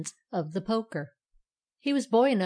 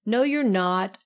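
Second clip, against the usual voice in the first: raised-voice contradiction; called out; 6 dB louder, slower than usual. A narrator's reading. Righty correcting the hidden poker, calling out. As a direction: call back loudly in disagreement. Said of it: "called Righty".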